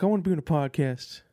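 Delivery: whispered pet voice; dog's whisper. Pretend. Voicing the barking dog Oliver as a whisper. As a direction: breathe it like a sneaky little dog. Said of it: "He's like".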